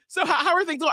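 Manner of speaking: chatty friendly instructor. Retold or imitated. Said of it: "he'll be like".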